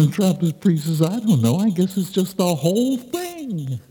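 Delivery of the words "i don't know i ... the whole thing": giving up on explaining; glum monk. Acted. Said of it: "I, I, I'm just down".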